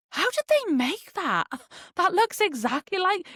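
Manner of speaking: amazed. Retold or imitated. Quoting amazed reaction to AI videos.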